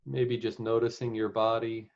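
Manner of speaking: unhurried meditation guide with long pauses; guided meditation. Real, not acted. Meditation leader settling the group into the present moment, guided meditation. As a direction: guide them gently, leaving space between phrases.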